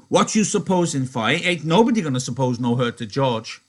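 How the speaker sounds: loud, high accusing challenge; angry Lenny. Acted. Lenny standing over Crooks, angry and loud.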